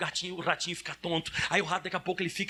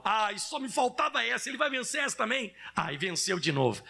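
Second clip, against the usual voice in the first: mock whining devil; 4 semitones higher than usual. Preacher voicing the defeated devil, mock whine. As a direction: whimper like a beaten devil. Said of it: "quem tem que dizer lá no inferno é o diabo".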